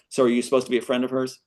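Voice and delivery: quick, lightly mocking receptionist. Receptionist mildly mocking the visitor, quick. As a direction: toss it off with a touch of scorn. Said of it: "Mocking, right?".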